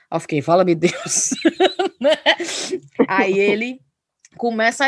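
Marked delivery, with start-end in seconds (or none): 0.4-2.2 laughing exclamation; amused laughing oh my God; laughing disbelief. Real, not acted. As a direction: gasp it out through laughter. Reacting to teacher's letter.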